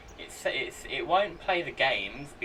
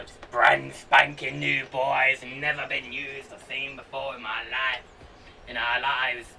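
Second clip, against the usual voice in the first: pirate voice; 3 dB louder than usual. Pretend. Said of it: "Captain Jack Sparrow kind of pirate".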